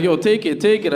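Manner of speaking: insistent. Retold or imitated. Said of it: "he's like".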